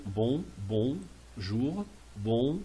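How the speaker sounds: "bon" and "jour" set apart for learners; pronunciation model. Shown as a demonstration. Teacher showing learners the pronunciation, careful and separated. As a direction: say "bon jour" word by word, evenly spaced. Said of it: "c'est pour la prononciation".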